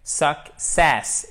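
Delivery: "Success" split as "suk, sess"; syllable split demo. Shown as a demonstration. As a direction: keep the K on the first half of "Success". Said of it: "Vous avez le K qui est rattaché à la première syllabe". (« Success » découpé, K en première syllabe)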